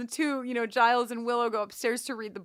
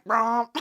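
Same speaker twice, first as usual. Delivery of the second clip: imitated cello note; 4 dB louder than usual. Podcaster mimics the spooky cello cue, bowed "romp". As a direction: hum the music cue as a cello. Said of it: "a string that's like".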